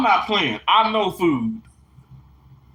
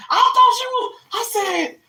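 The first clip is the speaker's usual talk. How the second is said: laughing; 13 semitones higher than usual. Real, not acted. Laughing at her mix-up.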